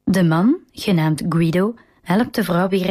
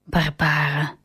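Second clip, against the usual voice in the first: calmly; 3 semitones lower, slower than usual. A narrator's reading. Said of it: "zegt de oom rustig".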